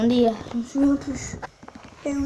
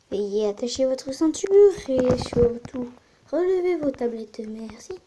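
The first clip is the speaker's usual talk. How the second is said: flight attendant; 4 dB louder than usual. Pretend. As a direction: pretend cabin announcement, louder. Pilot announcement to passengers.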